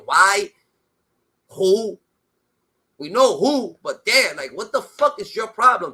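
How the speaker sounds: loud, hammering questions; angry demand. Real, not acted. Pressing the other host for evidence, loud and angry. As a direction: fire each question at him.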